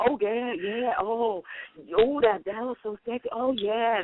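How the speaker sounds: soft, teasing imitation of gushing; mock swooning. Co-host teasing the host for gushing, mock swooning. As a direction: imitate her swooning, softly and mockingly. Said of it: "you just keep going".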